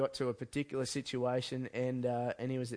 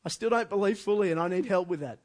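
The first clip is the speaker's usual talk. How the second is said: pleading cry; 6 semitones higher, 7 dB louder than usual. Retold or imitated. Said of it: "realizes his humanity and says".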